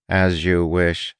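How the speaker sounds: slow flat robotic servant; monotone voice. Acted. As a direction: answer like a dutiful machine spirit. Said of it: "a monotone voice said".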